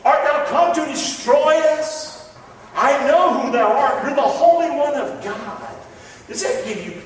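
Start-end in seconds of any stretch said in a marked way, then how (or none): 0.0-5.8 a touch of a higher demon voice; lightly voiced unclean spirit, pleading; demon crying out. Preacher voicing the possessed man before Jesus, mildly raised. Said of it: "he cried out with a loud voice".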